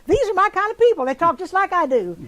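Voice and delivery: delighted recognition. Retold or imitated. Delighted thought at hearing Texans.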